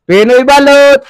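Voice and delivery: hawker's shout out to the street; vendor's call. Real, not acted. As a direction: street vendor crying balot. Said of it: "sa pagsigaw ko".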